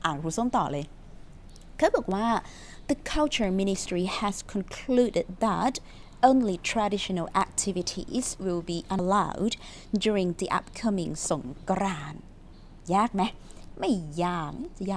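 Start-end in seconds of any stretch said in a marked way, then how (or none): 2.9-11.1 very slow, word-by-word English reading; careful dictation pace; slow reading aloud. Shown as a demonstration. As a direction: read each word out slowly for learners. Teacher reads news sentence aloud.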